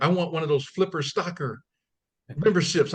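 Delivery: a hint of an eager elderly woman; elderly lady. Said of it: "she's like".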